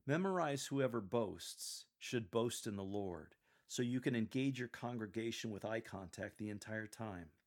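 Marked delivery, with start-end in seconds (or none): 0.7-3.3 slow reading, weight on "boasts" and "boast"; slow down and lean on "boasts" and "boast"; highlight boasts and boast. Shown as a demonstration. Coach quotes the line to memorize, slowly stressing "boasts" and "boast". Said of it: "Highlight boasts and boast".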